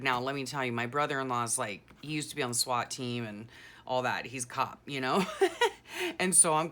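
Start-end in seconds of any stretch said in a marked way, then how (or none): none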